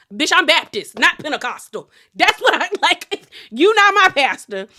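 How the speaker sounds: high, loud sass through laughter; laughing comeback. Acted. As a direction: crack up while firing off a mock retort. Joking comeback, laughing as she speaks.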